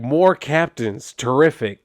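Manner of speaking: slow, lazy sheriff out of one side of the mouth; mock racist sheriff, lightly voiced; tobacco-chewing cop voice. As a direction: sneer it like a small-town cop with chew in his lip. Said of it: "you're gonna see why I'm talking like that".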